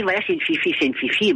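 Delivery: rejouer en voix bien plus aiguë, câline; voix aiguë pour le chien. Retold or imitated. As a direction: parler au chien d'une voix perchée. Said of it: "et je dis". (la maîtresse rassure son chien, voix aiguë câline)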